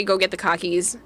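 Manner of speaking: "cockies" for car keys, R dropped, Boston style; Boston "go get the cockies"; Boston accent. Shown as a demonstration. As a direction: say "cockies" with a broad Massachusetts accent. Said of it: "instead of car keys".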